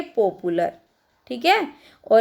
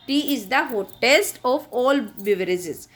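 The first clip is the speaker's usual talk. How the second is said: each word spaced out slowly for the class; slow dictation; much slower than usual. Shown as a demonstration. Teacher to her students, slow dictation. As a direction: dictate it slowly so children can write.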